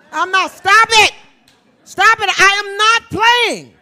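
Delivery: high, loud comic scold; mock scolding. Real, not acted. Star playfully scolding the crowd about food, loud high scold. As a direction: bark it like a fed-up auntie. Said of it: "scolding audience about fried food".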